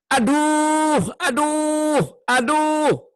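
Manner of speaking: high, pained cries of aduh; pained groans. Shown as a demonstration. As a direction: cry out aduh as if hurting. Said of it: "Itu menunjukkan rasa sakit". (rintihan kesakitan)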